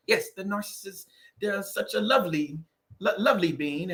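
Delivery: mock proper British accent. Imitating a proper narcissist-channel host, mock British accent. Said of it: "I can do impersonations".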